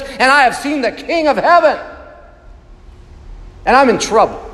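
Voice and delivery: a touch of anguished prophet, lightly voiced; Isaiah's lament. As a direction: cry out woe like a broken man.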